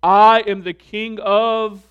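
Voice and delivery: loud, slow, puffed-up brag; mock bragging. Preacher mocking Americans bragging about their accomplishments. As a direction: swagger like a boastful king.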